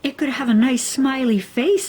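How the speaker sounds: put-on high, fast little girl; little Nell. A narrator's reading. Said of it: "said little Nell".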